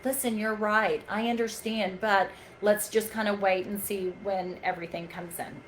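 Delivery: calmly agree, then ask them to wait; calm, soothing. Shown as a demonstration. Trainer modelling what to tell an upset patient, quietly calm. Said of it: "is to be calm".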